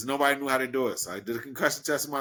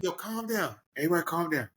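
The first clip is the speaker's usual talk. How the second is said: softer voice settling everyone; calming down; 5 semitones higher, 3 dB quieter than usual. Retold or imitated. Hurt wrestler tells panicking owner to settle, calming. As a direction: talk a panicking crowd down, lightly acted. His calm reply to the panic.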